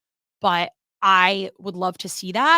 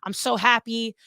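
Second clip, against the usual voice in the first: higher, giddy, bursting with joy; excited Edge; 4 semitones higher than usual. Retold or imitated. Edge gushing to his best friend about his new chapter, higher and giddy. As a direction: gush like a thrilled newcomer. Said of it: "he's, like, all excited".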